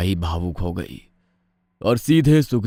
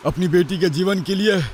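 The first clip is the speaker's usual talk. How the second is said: a lightly voiced father, resolute; firm tone; 10 semitones higher than usual. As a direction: accept the bargain with firm resolve. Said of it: "दृढ़ लहजे में बोला". (दृढ़ लहजे में हल्का सा पिता का स्वर)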